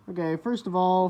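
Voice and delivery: speaking through a face mask; muffled behind an N95 mask. Real, not acted. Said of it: "forgive my muffled voice".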